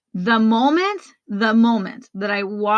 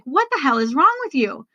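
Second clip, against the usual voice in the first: higher-pitched, exasperated telling-off; self-scolding; 5 semitones higher than usual. Retold or imitated. Woman alone in the car kicking her own butt, scolding. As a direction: scold yourself out of a panic. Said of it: "I start kicking my own butt".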